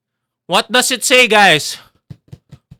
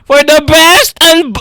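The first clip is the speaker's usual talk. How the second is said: loud showman call; hype announcer; 6 dB louder than usual. Pretend. Streamer hyping the unboxing, announcer style.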